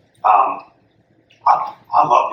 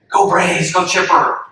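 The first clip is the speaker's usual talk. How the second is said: mild mock team yell; 6 semitones higher, slower than usual. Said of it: "the whole team yells".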